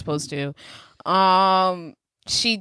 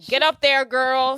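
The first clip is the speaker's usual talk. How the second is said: higher-pitched egging on; mock cheerleading to push someone up; imitated excitement; 6 semitones higher, slower than usual. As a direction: play the excited boss urging her on. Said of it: "Lil's excited. She tells Violet".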